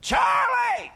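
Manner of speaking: piercing, urgent scream to grab attention; full-volume scream. Retold or imitated. Minister screaming at a man out of control with pain, full-volume scream. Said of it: "And I screamed".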